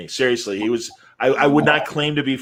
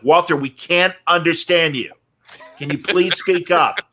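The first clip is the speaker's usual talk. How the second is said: higher, insistent plea; mild retold yell; 4 semitones higher than usual. Host asking broadcaster to speak up, mildly yelling. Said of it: "he yells at Walter Payton".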